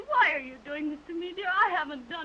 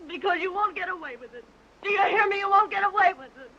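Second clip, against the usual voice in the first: angry threat; 4 dB louder than usual. Acted. Threatening lover who walks out.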